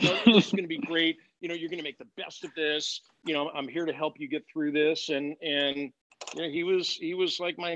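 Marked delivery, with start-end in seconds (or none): 0.0-5.1 a hint of a pep talk; mock-enthusiastic mentor. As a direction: sell him on it with pep. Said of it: "It's like".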